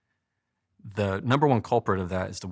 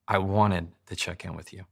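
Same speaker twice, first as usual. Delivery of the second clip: forward. Shown as a demonstration. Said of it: "That's a lot more forward".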